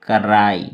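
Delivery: कराई said low and firm as a model word; pronunciation demo. Shown as a demonstration. Teacher showing learners how to pronounce it, careful demo of कराई. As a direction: say कराई emphatically, ending on a long falling "aai". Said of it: "कराई का pronunciation कैसे करेंगे".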